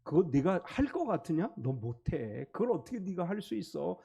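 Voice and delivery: Satan taunting a believer, low and soft; Satan discouraging. Retold or imitated. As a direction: tempt them to give up. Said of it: "사탄은 이렇게 얘기해요".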